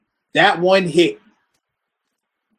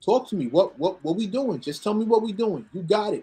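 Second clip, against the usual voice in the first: placating, mildly conceding; retold meek surrender; contrite; 3 semitones higher than usual. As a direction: back down without arguing. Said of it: "I'm contrite. I'm head down".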